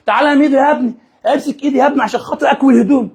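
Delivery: playful granny voice, barely put on; lightly voiced old woman. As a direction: mimic a grandma calling her boy for help. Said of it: "كل شوية تقول لي إيه".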